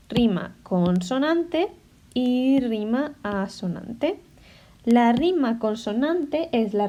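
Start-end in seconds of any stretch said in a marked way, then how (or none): 0.1-1.7 rima consonante said slowly and clearly; slow, deliberate. Shown as a demonstration. Teacher naming the first rhyme type, slowly. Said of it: "hay dos tipos". 2.1-4.2 y rima asonante said slowly and clearly; slow, deliberate. Shown as a demonstration. Teacher naming the second rhyme type, slowly. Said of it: "hay dos tipos".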